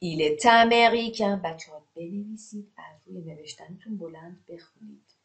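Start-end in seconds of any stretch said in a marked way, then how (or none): 0.0-1.4 "est américain" linked as "è-taméricain"; higher model reading with a sounded t joining "est américain"; with liaison. Shown as a demonstration. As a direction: carry the t of "est" onto "américain".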